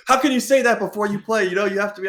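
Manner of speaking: high, shocked put-on voice; mock scolding voice. Imitating her scolding reaction.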